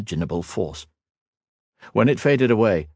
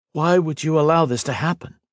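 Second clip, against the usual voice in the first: demanding; 9 semitones higher than usual. Acted. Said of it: "he demanded".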